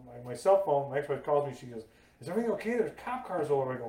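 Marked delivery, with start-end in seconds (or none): 2.2-3.7 retold alarm. Ex-wife's alarmed call retold.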